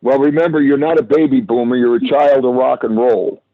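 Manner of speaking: ordinary delivery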